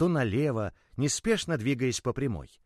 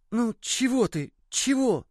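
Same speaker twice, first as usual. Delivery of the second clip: higher, lightly voiced curious toy; curious little ball; 12 semitones higher, slower than usual. The ball asks the boy about his father, a light high little voice. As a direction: ask it like a small toy.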